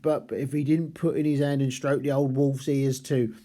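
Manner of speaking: lightly put-on Cockney zookeeper voice; a hint of a Cockney working-class zookeeper; Cockney accent reading. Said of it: "London kind of Cockney accent".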